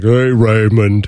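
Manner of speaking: hulking, giant ogre voice. Quoting the ogre brother's entrance: imitating the giant ogre brother. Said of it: "the giant ogre brother that comes in and is like".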